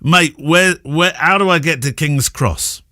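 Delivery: badly faked Newcastle accent of a tipsy fan; attempted Newcastle accent. Tipsy fan asking the way to King's Cross, in an attempted Newcastle accent. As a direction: imitate a worse-for-wear Newcastle fan's accent. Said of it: "I can't do the accent".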